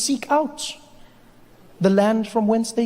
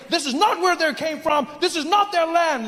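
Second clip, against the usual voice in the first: mock confident nativist; 8 semitones higher than usual. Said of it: "People confidently saying".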